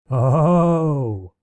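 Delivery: sudden yelped cry of surprise; a short, startled exclamation. Acted. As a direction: caught off guard by a pillow, cry out. Slapped by a pillow.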